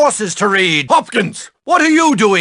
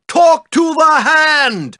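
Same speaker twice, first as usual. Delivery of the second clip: mock sassy quote; 4 semitones higher, slower than usual. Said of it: "As a grocery cashier once said to me".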